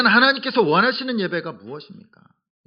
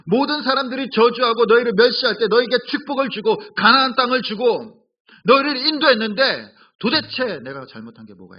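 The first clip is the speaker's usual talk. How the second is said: God pleading; 3 semitones higher, 4 dB louder than usual. Acted. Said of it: "이스라엘 백성들에게 이렇게 말씀하십니다".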